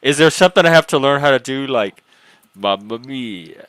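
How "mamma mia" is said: slow, drawn-out mock Italian exclamation. Joking about learning to be Italian, mock Italian accent. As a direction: put on a playful Italian accent.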